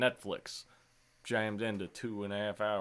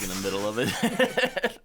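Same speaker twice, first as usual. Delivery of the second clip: laughing; 6 dB louder, slower than usual. Real, not acted. Laughing at the scene.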